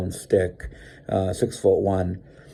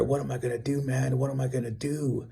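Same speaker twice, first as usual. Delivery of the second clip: retold fretting; 4 semitones higher, 6 dB quieter than usual. Stranded alone, wondering what to do.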